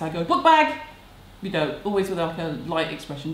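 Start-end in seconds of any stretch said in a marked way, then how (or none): 0.2-0.8 high, loud yell of a reminder; shouting at Max. Retold or imitated. Mother shouting a reminder to her son Max. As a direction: bark the reminder across the house. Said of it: "when I'm shouting at Max".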